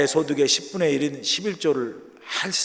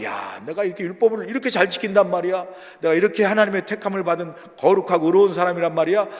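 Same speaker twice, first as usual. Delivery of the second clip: higher-pitched mock self-congratulation; self-admiring; 3 semitones higher than usual. Preacher mimics a believer proud of keeping the law, self-admiring. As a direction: act out someone impressed by their own righteousness. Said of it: "자기 자신에게 스스로 감격해요".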